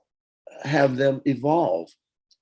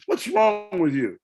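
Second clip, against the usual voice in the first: bandleader halting her; 8 semitones higher than usual. Retold or imitated. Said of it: "He said".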